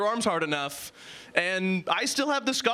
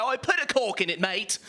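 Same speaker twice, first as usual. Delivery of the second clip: posh insult. Retold or imitated. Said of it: "sounds like a very posh insult".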